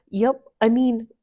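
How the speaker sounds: bashful nervous laugh; shy dwarf blushing; embarrassed giggle. A narrator's reading. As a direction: giggle shyly. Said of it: "face turning a bright pink".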